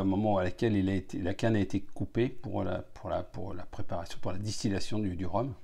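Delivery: glass held at lips; speaking while nosing rum; talking into a glass. Real, not acted.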